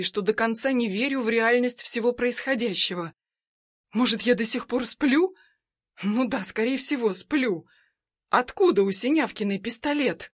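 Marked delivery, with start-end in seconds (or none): none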